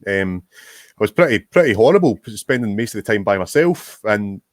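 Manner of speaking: hiccuping between words; with hiccups. Real, not acted. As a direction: talk through the hiccups. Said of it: "I've got the hiccups".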